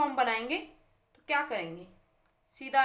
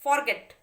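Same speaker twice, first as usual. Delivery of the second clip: फॉरगेट loud, weight on गेट; stress on last syllable; 2 semitones higher, 5 dB louder than usual. Shown as a demonstration. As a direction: stress the second vowel in फॉरगेट. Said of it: "इस पे आ रहा है".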